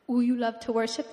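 lightly imitated pastor with rising question; a hint of pastor impression; Pastor Shangwei. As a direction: open on a cooing "ooh", like a funny pastor. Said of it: "he talks like this".

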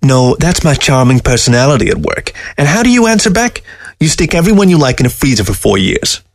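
high, mocking talking-fox voice; a scornful dead fox sneering at the man; sly fox voice. Taxidermy fox scoffing at the old man, high and sly.

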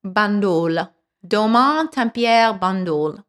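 put-on French-accented place names, one at a time; amateur French accent, evenly spaced names. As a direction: read the wine label with a careful French accent. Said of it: "it's something that sounds French".

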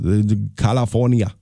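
put-on Austrian accent, Schwarzenegger style; Schwarzenegger impression. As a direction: say California like a bad Arnold impression. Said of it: "awful Schwarzenegger impression".

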